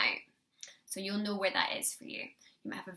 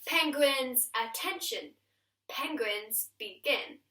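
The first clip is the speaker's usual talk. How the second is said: penguin commander call; 2 semitones higher, much slower than usual. Shown as a demonstration. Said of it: "And then we go".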